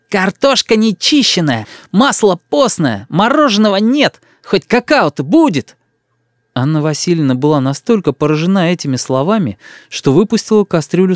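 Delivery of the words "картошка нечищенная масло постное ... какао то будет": put-on slow, higher sulky child; stubborn boy. A narrator's reading. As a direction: dig in like a spoiled kid. Boy complains about village. (упрямый мальчишка)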